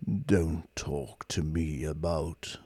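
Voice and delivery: low, slow whispered despair; depressed robot whisper; gloomy robot. Acted. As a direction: breathe it out hopelessly. Marvin's voice.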